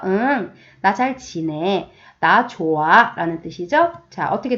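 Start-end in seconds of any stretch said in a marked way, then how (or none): 0.0-3.1 smiling reply. Acted. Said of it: "방긋 웃으면서".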